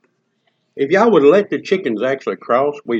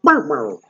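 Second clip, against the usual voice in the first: chicken noise. Retold or imitated. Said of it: "chicken goes".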